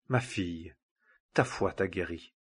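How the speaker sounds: hushed, kindly words to a daughter; gentle reassurance. A narrator's reading. Jesus reassures the trembling woman.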